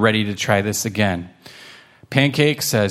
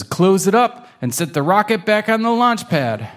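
lightly raised, instructing grandma; higher grandma voice; 7 semitones higher than usual. Acted. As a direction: give the kittens friendly directions.

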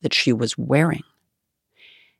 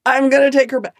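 much higher, panicky protest; high-pitched, bewildered self-defence; a young actress's flustered, high excuse; 12 semitones higher, faster than usual. Retold or imitated. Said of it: "And I'm like".

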